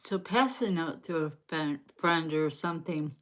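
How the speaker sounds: talking around ice in mouth; mouth full. Real, not acted. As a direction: speak with ice on your tongue. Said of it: "Sorry, I got some ice in my mouth".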